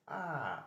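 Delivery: "Ah" drawn out like mild surprise; long A. Shown as a demonstration. Teacher illustrates surprise after a slap, long "Ah". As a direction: hold the open vowel in "Ah". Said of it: "A long one, you'll be surprised".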